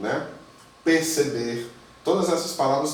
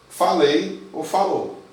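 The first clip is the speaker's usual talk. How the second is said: falei ou falou said slowly and a little louder; slow emphatic; 3 semitones higher, 4 dB louder, slower than usual. Shown as a demonstration. Teacher to students, slowly stressing falei ou falou. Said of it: "teacher repeats translation".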